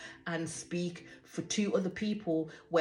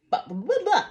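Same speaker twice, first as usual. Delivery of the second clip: dismissive blah; 11 semitones higher, 8 dB louder, faster than usual. Real, not acted. Brushing off her fumbling.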